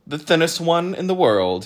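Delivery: high, loud, cheery answer; brightly pleased with himself. A narrator's reading. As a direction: chirp it proudly. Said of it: "he replied brightly".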